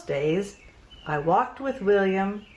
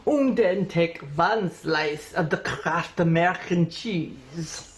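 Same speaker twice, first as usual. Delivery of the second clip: put-on German accent. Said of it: "fake German accent".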